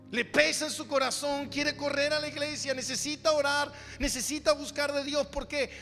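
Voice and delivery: normal talking voice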